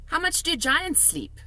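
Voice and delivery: a hint of a young girl; Sophie's voice. A narrator's reading. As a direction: read her as a polite small girl.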